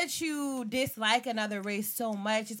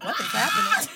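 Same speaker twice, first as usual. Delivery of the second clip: higher, half-laughing exclamation; mock bewilderment; 4 semitones higher, 4 dB louder than usual. Retelling the washcloth lesson to friends, mock bewilderment. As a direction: replay your baffled reaction, pitched up. Acts out her baffled reaction.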